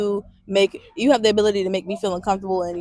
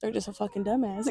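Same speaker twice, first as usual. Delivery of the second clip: ordinary delivery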